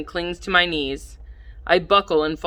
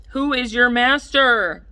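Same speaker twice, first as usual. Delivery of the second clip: slow, higher teasing victor; playful kid demand; 6 semitones higher, slower than usual. Acted. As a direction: drag it out and gloat. Charlie repeats demand.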